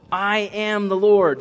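"I am the Lord" high, loud and drawn out; all-caps emphasis. Acted. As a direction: proclaim "I am the Lord" in vocal capital letters, slowly. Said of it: "That's the all caps".

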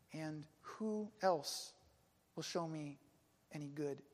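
slow, sinking, low question; despairing. Retold or imitated. One who feels God set them aside, despairing. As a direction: let it trail down, hopeless and quiet. Voicing those who feel abandoned.

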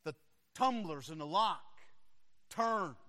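soft, very quiet suspense narration; hushed storytelling. A narrator's reading. Preacher building suspense for the congregation, hushed narration. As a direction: draw listeners in with a hush.

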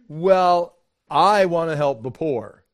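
loud, pious excuse; mock righteous shout. Mock excuse, much louder.

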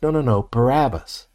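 insistent refusal. Acted. Crowd rejecting Pilate's offer.

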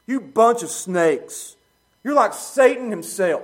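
slow, loud, weighted rebuke; stern denunciation. Acted. Jesus rebuking the Pharisees, slow stern denunciation. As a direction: drive each insult home slowly. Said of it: "what he says".

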